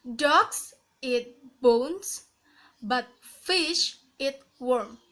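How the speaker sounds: slow, rising through "Dogs eat bones", falling to "worm"; rising falling intonation. Shown as a demonstration. Teacher demonstrating rise then fall, slowly, ending low on "worm". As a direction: stretch "Dogs" and "fish" upward, then drop on "worm". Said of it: "rising falling intonation".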